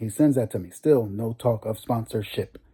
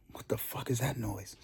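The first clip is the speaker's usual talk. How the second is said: muttered alarm; 12 dB quieter than usual. Retold or imitated. Driver hearing a strange engine noise, muttering softly.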